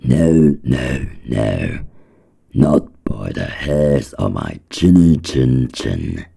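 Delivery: loud, high, defiant little pig. Acted. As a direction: shout back as a scared little pig. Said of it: "So he answered back".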